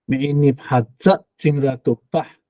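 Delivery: 哈扎 with the weight on 扎, rising; stress at the back. Shown as a demonstration. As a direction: stress the final syllable 扎 in 哈扎. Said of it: "重音在后哈".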